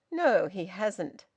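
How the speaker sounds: each word slow and hit hard; fierce emphasis. Acted. Son denying Albert asked him, each word fierce. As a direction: lean on every word fiercely. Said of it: "emphasising each word with a peculiar fierceness".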